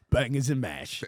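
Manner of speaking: put-on understated British accent. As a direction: imitate a room of Brits. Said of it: "a room full of people".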